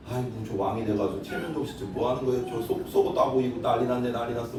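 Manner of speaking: low, soft sneering aside; scornful muttering. Retold or imitated. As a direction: scoff quietly under your breath. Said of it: "막 이렇게 한 거야".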